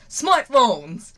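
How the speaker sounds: put-on sudden high yell of an excited kid; mock scream. Friend yelling his answer to Senku, loud and eager. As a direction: blurt it out like a proud idiot. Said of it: "And Taiju screams".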